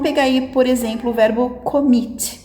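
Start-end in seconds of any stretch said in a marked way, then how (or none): 1.6-2.4 "commit" with the second syllable, mit, stronger; stress on MIT. Shown as a demonstration. Teacher giving an example verb, "commit" stressed on mit. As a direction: say "commit" leaning on the final mit. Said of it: "é o mit".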